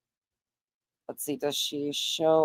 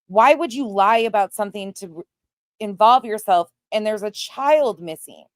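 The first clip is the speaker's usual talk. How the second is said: louder, indignant questions fired at the liars; real anger; 2 semitones higher, 3 dB louder than usual. Real, not acted. Host reacting to fraudulent fundraisers in a missing child case, openly angry. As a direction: let the real outrage push every question out. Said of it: "I'm just pissed".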